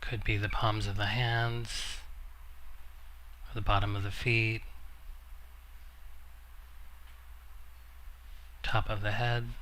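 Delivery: measured meditation guidance with long pauses; guided meditation. Acted. Teacher guiding a seated group into noticing the body, calm meditation voice. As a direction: gently guide listeners inward, leaving long silences.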